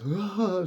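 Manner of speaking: high "Ah!", mimicking a breakdown; high retold cry of shock; imitated cry. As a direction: imitate someone starting to break down. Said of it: "starts breaking and crying".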